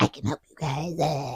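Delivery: hushed half-whispering beast voice. Retelling a story, voicing the creature in the pit offering help, creature half-whispering. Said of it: "He's like whispering".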